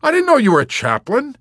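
very high, loud delight; ecstatic exclamation. A narrator's reading. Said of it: "he exclaimed ecstatically".

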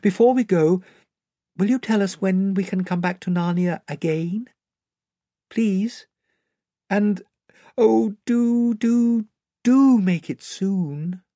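put-on high, imploring child voice; Lucy, pleading child. Lucy begging the lion to let them return, high and pleading. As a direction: beg him, drawing out the last plea.

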